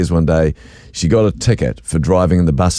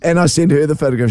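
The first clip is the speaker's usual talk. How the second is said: still laughing; 12 semitones higher than usual. Real, not acted. Still laughing retelling call.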